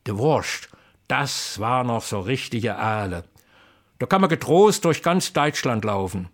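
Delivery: lively, rhythmic Kassel dialect verse; dialect poem recitation. Acted. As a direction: recite it like an old folk poet.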